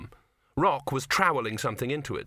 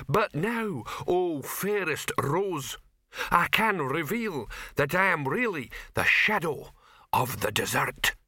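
mock hero; 6 semitones higher, slower than usual. Troll imitates hero's line.

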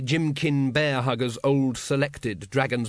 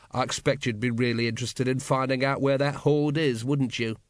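probing. Acted. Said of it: "said Vimes experimentally".

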